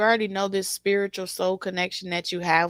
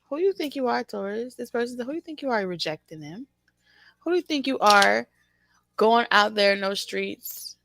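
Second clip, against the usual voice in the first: mock indignant scolding, higher; scolding quote; 3 semitones higher than usual. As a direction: imitate someone scolding an unfaithful partner. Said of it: "that's what they had said".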